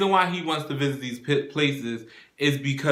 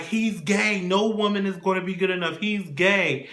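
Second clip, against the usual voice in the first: retold mild scream; 5 semitones higher than usual. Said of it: "they're screaming back and forth".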